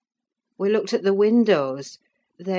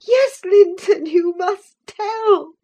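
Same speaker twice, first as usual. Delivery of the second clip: put-on high, slow, crying girl's voice; tearful plea; 9 dB louder, slower than usual. A narrator's reading. Catherine begging Linton through tears to tell. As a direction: beg him through tears. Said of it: "said Catherine".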